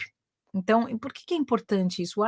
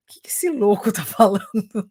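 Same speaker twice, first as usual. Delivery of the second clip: laughing retelling. Retold or imitated. Imagined reaction, laughing as she tells.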